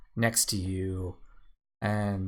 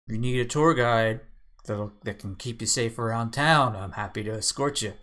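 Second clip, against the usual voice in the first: half-orc Gorvy; 2 semitones higher, faster than usual. Acted.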